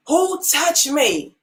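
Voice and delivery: slow, searching question; lightly voiced Jesus asking slowly.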